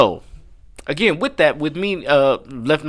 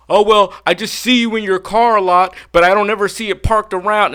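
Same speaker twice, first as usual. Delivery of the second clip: mock groundskeeper; 6 semitones higher, 3 dB louder than usual. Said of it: "And he said".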